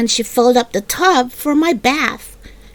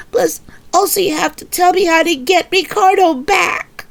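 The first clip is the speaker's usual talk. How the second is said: put-on higher, childish indignant voice; a small girl complaining that nobody feels sorry for her; little girl protesting; 4 semitones higher than usual. Little girl protesting to her mother over a lost cookie, higher and indignant.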